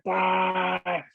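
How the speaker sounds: high, drawn-out mock yell at normal volume; retold shout. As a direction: imitate your own effortful shout, held on one high note. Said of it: "shouted a bit and I was like".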